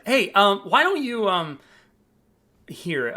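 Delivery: bright, high, eager front desk voice; a cheerful clerk welcoming a guest; chipper hotel clerk. Acted. Receptionist greets the guest checking in, high and cheerful.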